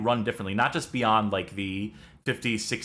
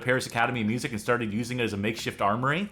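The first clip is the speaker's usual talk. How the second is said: put-on hammy French accent reading a mission briefing; over-the-top French accent, fully committed; much faster than usual. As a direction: play it like a French Resistance handler. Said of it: "This is my French accent".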